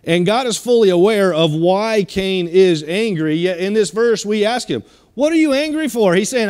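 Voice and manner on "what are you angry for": voicing God. God voiced questioning Cain.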